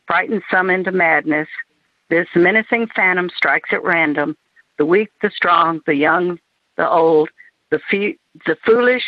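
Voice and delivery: even, phrase-by-phrase verse recital; poem reading. Acted. Poet reading a covid poem to the group, measured recital. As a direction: recite it evenly, setting each image apart. Reads own poem aloud.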